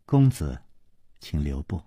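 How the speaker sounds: soft, low, soothing plea; smiling. A narrator's reading. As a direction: gently call them back with a smile in the voice. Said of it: "却笑着说". (含笑低柔地挽留)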